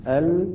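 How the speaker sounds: ال with a thin, clear L; tongue tip only on the lam of ال; light lam. Shown as a demonstration. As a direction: tarqiq on the lam of ال. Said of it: "طرف اللسان على مخرج اللام".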